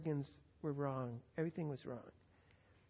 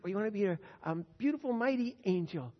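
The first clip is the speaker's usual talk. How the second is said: building question; 3 semitones higher, 4 dB louder, faster than usual. Acted. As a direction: lift it toward the grand choice. Asks granddaughter again, rising.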